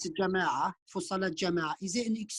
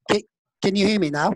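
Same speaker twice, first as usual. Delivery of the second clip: loud; 8 dB louder than usual. Real, not acted. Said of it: "I could hear you blowing the speaker now".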